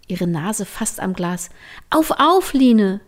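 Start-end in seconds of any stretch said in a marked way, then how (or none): 1.9-3.0 high, loud, eager wake-up call; bright eager shout to a friend in bed; excited call. Acted. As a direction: rouse your sleepy friend with glee. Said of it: "rief sie begeistert".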